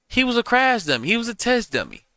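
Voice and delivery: indignant, stressed dummy; emphatic. Real, not acted. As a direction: spit out the verdict. Angry verdict on the guest.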